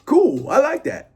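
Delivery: very high, exaggerated mock Black American accent; put-on Black accent. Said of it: "That's my black accent".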